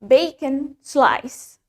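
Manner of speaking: slow, deliberate teacher model of "Bacon slice", each syllable clear; slow model pronunciation. Shown as a demonstration. Teacher to class, slow clear model to repeat. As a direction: say "Bacon slice" slowly for students to copy. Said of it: "Let's say it".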